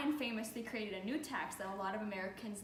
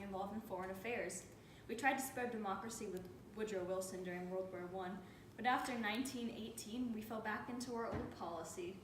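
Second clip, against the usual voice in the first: slurring; 2 semitones lower, 3 dB quieter than usual. Acted. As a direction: mumble as if drunk and drugged. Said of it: "Love how you're slurring your words".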